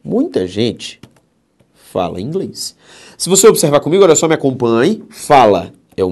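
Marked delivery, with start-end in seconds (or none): 0.0-2.8 slow, spaced-out reading; slow dictation. Shown as a demonstration. Teacher repeating the example sentence for students, slow and spaced. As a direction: read it slowly for the class.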